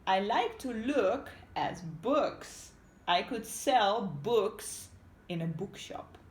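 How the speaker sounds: slow, lightly voiced wife; a hint of Missus Hood talking to herself. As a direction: draw out her daydream slowly. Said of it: "she said to herself".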